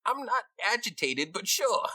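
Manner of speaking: very high-pitched rat voice; defensive rat. Acted. Rat offered music to calm down, defensive. Game master replies as the rat.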